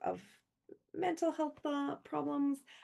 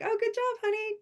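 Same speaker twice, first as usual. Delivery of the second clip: mock praise; 14 semitones higher, 5 dB louder than usual. Mock-praising friend's gift set.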